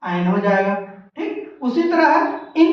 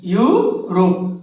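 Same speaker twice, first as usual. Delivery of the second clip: slow spelling; 6 semitones lower, much slower than usual. Shown as a demonstration. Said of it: "यूरोप कैसे लिखते हैं?".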